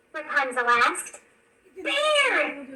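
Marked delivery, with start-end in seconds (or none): 1.8-2.7 lightly voiced alarmed yell; high mock yell. A narrator's reading. Flynn warning Rapunzel about the bear, high mock yell. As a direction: warn of the bear, mildly. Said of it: "Flynn yelled".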